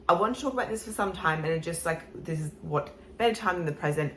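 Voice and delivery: lisping from a tight, filled chin; slight lisp. Real, not acted. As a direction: speak with a mild lisp, mouth barely opening. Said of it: "I've got a little bit of a lisp".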